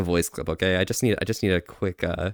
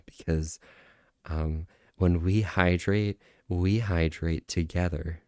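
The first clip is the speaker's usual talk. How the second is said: low, soft, measured impression; 5 semitones lower, 3 dB quieter than usual. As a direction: lower and quieter, gently inviting viewers along. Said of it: "I'm trying to do the Keat impression of the Volpe impression".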